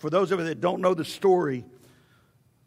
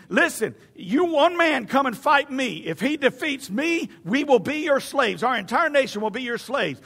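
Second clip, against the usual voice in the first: mock giant's challenge; 5 semitones higher than usual. Giant challenging the opposing army to single combat, mock holler. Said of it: "would scream".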